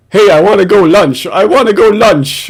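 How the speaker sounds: mocking whine. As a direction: whine it like a needy child. Mocking the guy's lunch talk.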